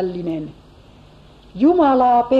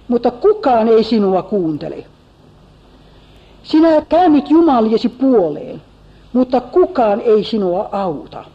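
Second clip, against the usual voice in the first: mocking Eliphaz. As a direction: jeer at his cries, only lightly acted. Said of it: "Hän sa-, jatkaa".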